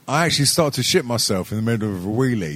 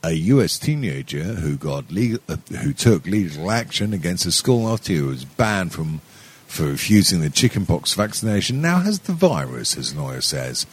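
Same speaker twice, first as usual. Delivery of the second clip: tipsy newsreader read, a bit lower; drunken news voice; 6 semitones lower than usual. Acted. Host reads a news story as a drunk newsreader. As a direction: read the headline like a drunk anchor. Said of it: "in my drunken news voice".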